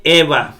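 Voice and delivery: "eva" with the diphthong sounded EV, then A; Greek word demonstration. Shown as a demonstration. Teacher joins diphthong and alfa for learners, demonstrating "eva". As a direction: model "eva" as E-V joined to A. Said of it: "ipsilon es ev".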